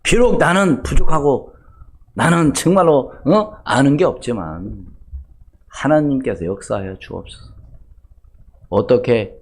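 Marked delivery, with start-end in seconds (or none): 0.0-7.5 a prayer that fades from a lifted call to a hushed plea; the pastor shows his congregation the prayer he prays; quoted prayer. Retold or imitated. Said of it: "그런 기도를 합니다".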